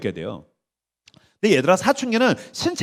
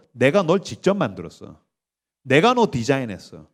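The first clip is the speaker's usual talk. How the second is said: solemn reassurance; 8 semitones lower, 3 dB quieter than usual. Acted. Voices God answering the world.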